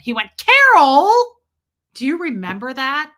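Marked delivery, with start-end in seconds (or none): 0.4-1.1 loud, high holler of CAROL; imitated scolding yell. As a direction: yell at your wife as if it's her fault. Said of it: "yell at her for it".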